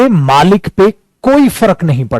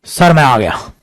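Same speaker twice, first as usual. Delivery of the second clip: mock casual swagger, a touch lower; imitating a rude employee, lightly lower; rough style; 4 semitones lower than usual. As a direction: slouch into the boss's office. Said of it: "ये rough style है".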